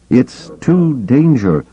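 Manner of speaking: high, drawn-out warning call; urgent warning. A narrator's reading. Skywalker's warning, cut off by another.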